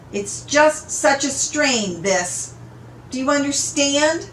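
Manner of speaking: mild sobbing. Acted. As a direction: plead through light sobs. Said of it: "she sobs".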